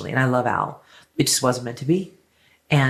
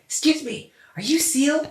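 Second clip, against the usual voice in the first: excited fan; 13 semitones higher than usual. Retold or imitated. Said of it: "I'm like".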